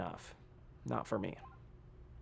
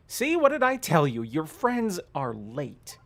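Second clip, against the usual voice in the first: put-on old lady voice; 2 semitones higher than usual. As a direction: play the fussy old mom. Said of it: "Make her sound like Gam Gam".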